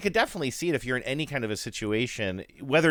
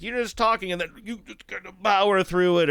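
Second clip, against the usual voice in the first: Mulaney impression; 7 semitones higher than usual. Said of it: "him being like".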